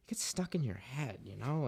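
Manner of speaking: softly whispered aside; a whispered confiding aside. Real, not acted. Aside about word habits.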